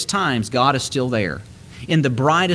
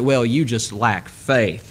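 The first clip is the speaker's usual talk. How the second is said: talking down; 3 semitones lower, slower than usual. Retold or imitated. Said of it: "that's how it sounds coming off my lips".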